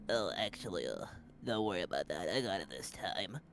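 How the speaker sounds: lazy sleepy voice. Acted. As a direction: sound half asleep and lazy. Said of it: "really lazy, sleepy voice say".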